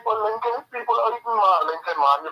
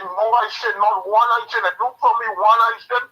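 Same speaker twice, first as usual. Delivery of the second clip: heated outburst; 4 semitones higher, 5 dB louder than usual. Real, not acted. Caller venting anger on radio.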